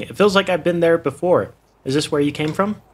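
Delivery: eating while talking; mouth full. Real, not acted. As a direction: talk through a mouthful. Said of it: "Sorry, I'm eating while".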